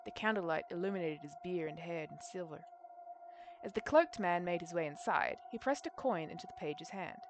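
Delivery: measured, understated storytelling read; story narration. A narrator's reading. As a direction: narrate the scene like an audiobook. Reads the story aloud.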